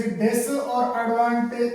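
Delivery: "डिस" and "एडवांटेज" as two separate words; disadvantage broken up. Shown as a demonstration. Teacher showing the mistake, "डिस" and "एडवांटेज" said apart. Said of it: "अलग अलग तोड़ करके".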